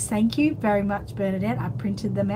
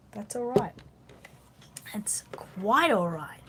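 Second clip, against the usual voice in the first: whispering. Real, not acted. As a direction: whisper it, slow and reassuring. Reassuring viewer softly.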